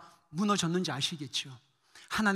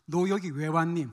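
mildly tender questioning; gentle voice of God; 3 semitones lower than usual. Retold or imitated. God asking the missionary why he came, gentle. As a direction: ask it kindly, a little low. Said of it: "부드러운 음성으로 저에게 이렇게 말씀하셨습니다".

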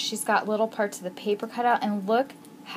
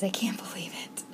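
quick whisper with a laugh; awed whisper; 6 dB quieter, much faster than usual. Real, not acted. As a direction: breathe it out fast, giggling. Awe at gifts.

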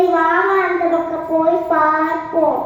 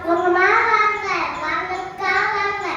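singsong street hawker; 4 dB quieter than usual. Acted. Shopkeeper calling customers.

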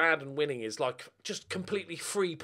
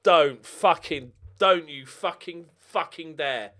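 angry; 6 dB louder, slower than usual. Real, not acted. Late goal conceded.

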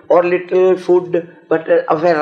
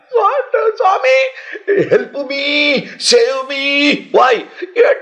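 high, loud, panicky begging; frightened tomcat's plea; 12 semitones higher, 3 dB louder, slower than usual. Acted. Tomcat begs the Swami to save him, high panicky plea. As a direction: cry for help, a frightened cat voice. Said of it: "The tomcat said".

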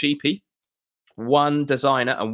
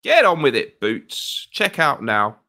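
impatient; 3 semitones higher, 4 dB louder, slower than usual. Real, not acted. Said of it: "I'm impatient".

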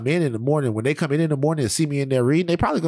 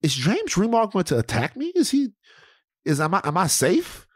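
mock panic; 7 semitones higher than usual. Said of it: "I'm like".

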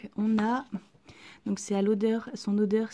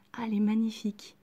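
whispering; faster than usual. Real, not acted. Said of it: "je chuchote".

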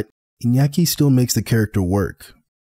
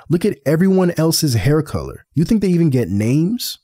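hammed-up cocky swordsman bragging; cocky mock Zoro; 6 semitones higher than usual.

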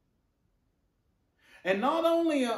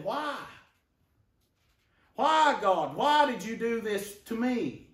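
mock whine. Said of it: "he whined and went on".

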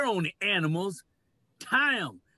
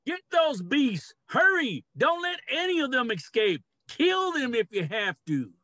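rally the hunters to charge; barked battle orders; ordering an attack; 4 semitones higher than usual. Acted. Leader orders men to attack.

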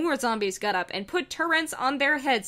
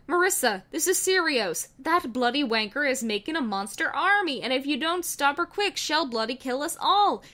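scared Wheatley; 4 semitones higher than usual. Acted. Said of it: "Wheatley got really scared and said".

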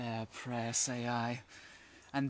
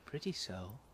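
sprite casting spell; 4 semitones lower, 5 dB quieter than usual. Acted. Puck casts charm over Lysander.

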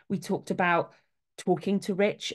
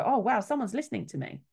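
relieved surprise; 5 semitones higher than usual. Retold or imitated. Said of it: "we then calm down and go".

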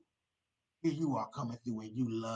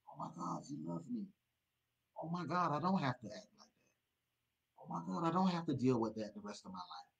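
awed realization; 2 semitones higher than usual. Acted. Believer realizing God's love, hushed then soaring. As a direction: breathe it in wonder, then build.

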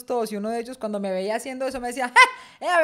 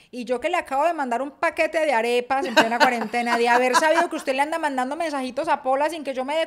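mock scolding mother; 3 semitones higher, 6 dB louder than usual. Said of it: "Una vez sí le dijo a mi hermana".

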